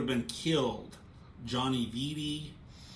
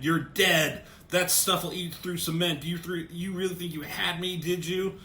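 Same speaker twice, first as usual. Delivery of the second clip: louder, higher gloating yell; mock yell; 5 semitones higher, 4 dB louder than usual. Maroni yelling at Dent after the acid, gloating mock yell. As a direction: jeer at the burned lawyer as he falls. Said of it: "Maroney's yelling at Dent".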